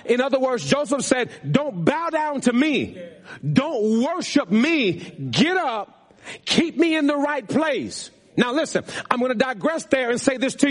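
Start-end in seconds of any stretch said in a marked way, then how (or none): 1.5-8.1 higher, slow preached quote; emphatic preaching. Acted. Pastor voicing Joseph refusing to be worshipped, emphatic. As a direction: preach each command slowly and high.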